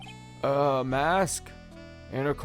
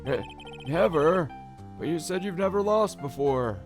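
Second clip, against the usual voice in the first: higher, louder stammer; astonished judge; 8 semitones higher, 4 dB louder than usual. Acted. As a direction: stammer it high in shock.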